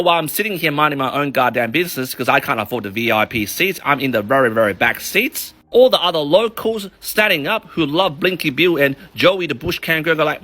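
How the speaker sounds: normal talking voice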